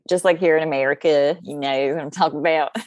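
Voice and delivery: lightly put-on American country twang; twang accent. Shown as a demonstration. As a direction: slip briefly into a homegrown twang. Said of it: "that twang accent that you just did".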